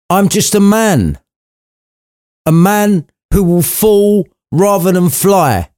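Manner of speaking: put-on old man fretting he will fall; Scrooge's voice. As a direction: plead your limits to the spirit, slowed. Narrator voicing Scrooge's reply.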